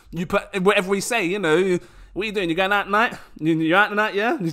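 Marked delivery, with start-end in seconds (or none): 2.2-4.4 quick London Cockney accent with dropped T's. Explaining accents in the uk, the speaker demonstrates a cockney accent. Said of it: "just your Cockney".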